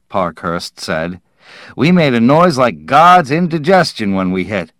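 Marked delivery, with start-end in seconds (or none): 1.8-4.7 raised, higher hearty voice; loud joking. Acted. Parkhurst joking to crew about their crash landing, loud hearty. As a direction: boom it out like a joke.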